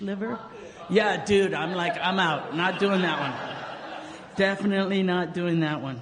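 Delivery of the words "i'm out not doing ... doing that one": louder, laughing, backing right off; laughing refusal. Retold or imitated. Refusing the fish liver with a loud laugh.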